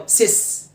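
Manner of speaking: سيس said "sis" with a short vowel; first syllable of sister, سيس. Shown as a demonstration. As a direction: say سيس quick-vowelled with hissed S. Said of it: "شورت آي".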